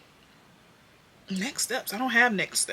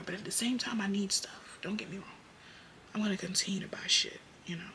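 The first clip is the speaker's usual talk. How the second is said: whispered aside; 11 dB quieter, faster than usual. Real, not acted. Whispering to her viewers about still buying stuff. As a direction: let it slip out as a secret whisper.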